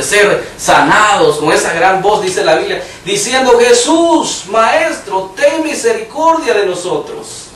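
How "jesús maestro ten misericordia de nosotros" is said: retold cry for mercy. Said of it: "Le gritaban a gran voz".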